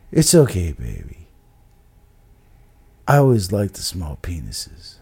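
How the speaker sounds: put-on low, soft, gravelly older woman; Sue. Storyteller imitates Sue consoling Salami, low gravelly voice. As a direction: impersonate her in a hushed gravelly croak. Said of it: "she has a very gravelly voice".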